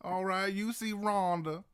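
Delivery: bayou local. Acted.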